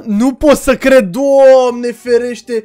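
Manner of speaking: drawn out slowly, half gasping in shock; stunned disbelief. Real, not acted. Gamer seeing his friend caged, slow stunned disbelief. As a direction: let the words stretch in disbelief. Reacts to finding Ana caged.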